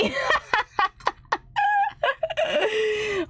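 long high cackling laugh; high giggling fit; big laugh. Real, not acted. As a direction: burst out laughing at yourself. Laughs at own accent excuse.

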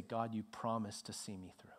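whispered prayer to God. Shown as a demonstration. Preacher modelling a prayer at communion, whispered.

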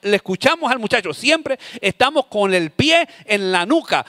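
fast, rising rant about the trash; exasperated parent escalating a scolding. Acted. Acted parent scolding over trash.

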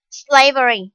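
SLAvery, first syllable stressed. Shown as a demonstration. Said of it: "slavery with the stress on the foot".

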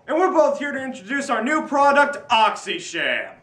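hard sell ad. Acted. Billy Mays infomercial parody.

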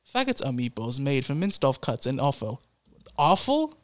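reading aloud in an attempted British accent. Shown as a demonstration. Friend attempts the food description for laughs, British accent. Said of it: "You do a British accent".

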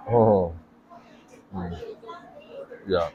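chewing while humming; muffled closed-mouth speech; mouth full. Real, not acted. Seen 1: Just bit burger; mouth closed, cheeks full, chewing through words.

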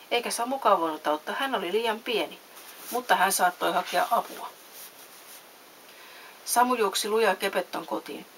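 lively storybook reading with distinct dialogue; measured, animated storytelling; story narration. A narrator's reading. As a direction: read a bedtime story expressively. Reads a story aloud.

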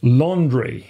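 "Laundry" said slowly, each sound clear; laundry pronounced carefully. Shown as a demonstration. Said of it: "en faisant bien attention à la prononciation piège". (prononciation soignée de « Laundry »)

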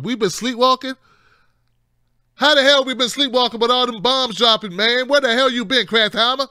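high, loud and indignant; outraged disbelief. Real, not acted. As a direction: demand an answer, fired up. Outraged rant at pundit.

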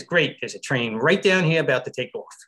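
lightly imitated New York accent. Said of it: "in her finest New York accent".

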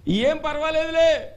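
high, slow, loud reassurance; Elijah reassuring. Acted. Prophet calming the widow, high slow reassurance. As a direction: soothe her worry, drawn out. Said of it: "ఈయనేమన్నాడు తెలుసా".

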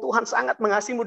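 lightly lifted, smiling quote; retold smiling words. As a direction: imitate words said through a smile. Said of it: "dengan senyum begitu ya".

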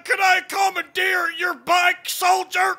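fast, barking sergeant commandeering a bike; drill sergeant. Acted. Sergeant demands the soldier's bike, barking fast. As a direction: bark the order quickly.

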